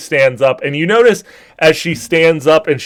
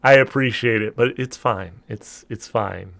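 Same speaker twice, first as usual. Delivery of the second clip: goddess laughing it off; 2 semitones lower, 5 dB quieter than usual. Acted. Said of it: "She's like".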